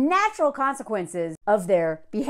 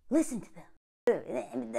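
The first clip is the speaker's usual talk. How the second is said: slow emphatic advice; 2 semitones lower, 8 dB quieter, much slower than usual. Real, not acted.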